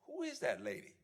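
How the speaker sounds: high, wide-eyed wonder; awed question. Retold or imitated. Freshman hearing the booming teacher, high and amazed. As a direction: ask it like a startled freshman. Young student first hears teacher.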